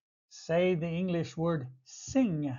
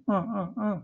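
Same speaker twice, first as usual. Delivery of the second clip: mock sobbing; 2 semitones higher, faster than usual. Shown as a demonstration. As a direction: fake crying sobs, uh uh uh. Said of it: "is to cry".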